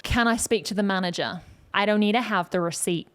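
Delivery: lightly stern complaint; a touch of stern, narrow twang. Shown as a demonstration. Customer asking to speak to the manager, mildly stern. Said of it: "So it's stern, kinda like this".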